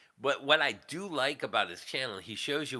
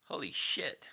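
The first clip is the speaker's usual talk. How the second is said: breathy whispered curse; hushed, stunned whisper; half-voiced astonished swear; whispered shock; 5 dB quieter than usual. Real, not acted. Muttered reaction to surprising news.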